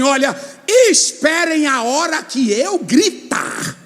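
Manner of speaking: Joshua commanding. Retold or imitated. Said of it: "Josué chegou e disse assim".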